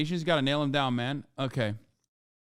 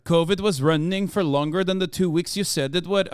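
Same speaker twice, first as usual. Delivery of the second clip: put-on Icelandic accent. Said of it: "it's hard to keep doing the accent".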